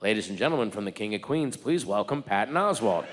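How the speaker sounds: a hint of a stage announcer booming the headliner. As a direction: introduce the act like a club announcer. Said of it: "The announcer gets on".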